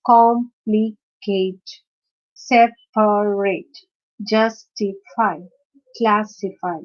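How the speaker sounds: "complicate", "separate", "justify", "classify" slowly, syllable by syllable; slow teaching list, "complicate" to "classify" broken into syllables; split into three syllables. Shown as a demonstration. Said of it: "Which is a three syllable word".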